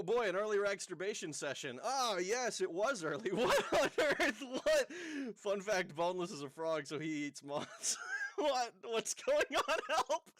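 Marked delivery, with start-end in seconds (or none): 3.3-4.9 surprised. Real, not acted. Streamer reacts to a sudden change. 8.4-10.3 surprised. Real, not acted. Reacting to a strange change.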